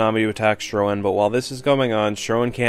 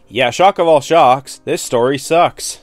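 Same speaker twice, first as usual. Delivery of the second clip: mock shock; 4 dB louder, slower than usual. Real, not acted. Mock surprise verdict.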